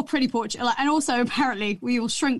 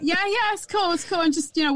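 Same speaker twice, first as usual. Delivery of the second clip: higher-pitched, fobbing-off imitation; retold hasty cover-up; 6 semitones higher than usual. Boyfriend covering for his game, retold hasty cover-up.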